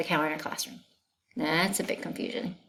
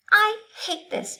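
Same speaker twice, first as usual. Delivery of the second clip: high, loud frustrated shout; 6 dB louder than usual. Acted. Teacher shouting at the cow in class, fed up. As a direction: yell it out in exasperation. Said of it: "she shouted".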